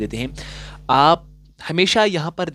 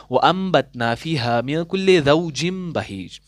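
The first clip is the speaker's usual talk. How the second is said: recitation. Shown as a demonstration. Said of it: "जिस तरीके से यहाँ पर मैंने लिखा".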